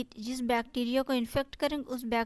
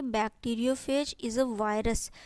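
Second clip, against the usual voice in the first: model viva answer; much slower than usual. Shown as a demonstration. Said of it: "तो आप बोलेंगे".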